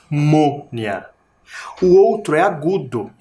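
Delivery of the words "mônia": "mônia" with a closed, nasal Ô; nasal sound. Shown as a demonstration. Teacher demonstrating the nasal accent, nasalized "mônia". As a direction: send the stressed vowel of "mônia" through the nose. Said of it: "parece que sai pelo nariz o som".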